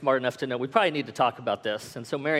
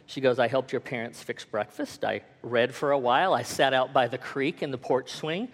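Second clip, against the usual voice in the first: lower, understated imitation of composure; calm reply; 3 semitones lower than usual. Wife tells angry husband her morning, calm. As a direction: answer evenly and unruffled, voice dropped. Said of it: "she calmly replied".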